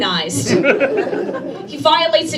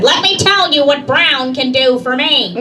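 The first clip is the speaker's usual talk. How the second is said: mom's demand; 3 semitones higher than usual. Retold or imitated. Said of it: "She called up U P S one time and said".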